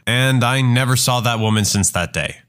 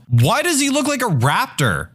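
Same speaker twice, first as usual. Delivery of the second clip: yelled; 10 semitones higher than usual. Retold or imitated. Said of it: "she yelled".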